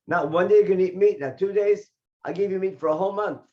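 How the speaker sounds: a hint of God's anger; mild loud God voice. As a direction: boom it out as an irritated God. God angrily promises meat for a month.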